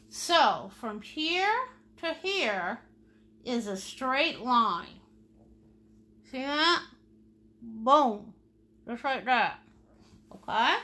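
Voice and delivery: talking with a brush in teeth; paintbrush in mouth. Real, not acted. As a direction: speak around a paintbrush. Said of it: "I got a paintbrush in my mouth".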